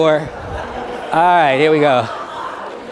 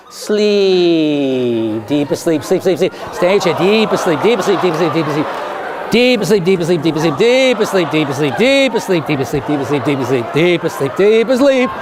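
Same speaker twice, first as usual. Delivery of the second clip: stage hypnotist's repetitive, lowered induction; hypnotic sleep command; 3 semitones lower than usual. Acted. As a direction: chant them down into a deep trance.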